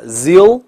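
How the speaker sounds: Zeal slow and loud, ending in a dark L. Shown as a demonstration. Teacher builds 新西兰 in parts, slow emphatic dark L. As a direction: hold the L at the end of Zeal. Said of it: "发两个Zeal".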